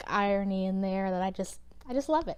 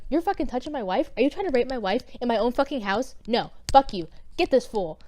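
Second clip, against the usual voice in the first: mock furious king; 3 semitones higher than usual. Enraged king catches Haman with wife.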